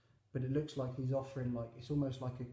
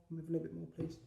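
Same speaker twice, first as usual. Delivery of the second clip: lightly voiced begging orphan, higher and quick; Oliver; 4 semitones higher, much faster than usual. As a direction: plead lightly for more, pitched up. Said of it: "Almost like Oliver".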